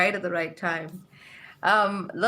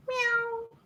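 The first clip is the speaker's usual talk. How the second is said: mock meow; 4 dB quieter than usual. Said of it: "neither of the cats go meow".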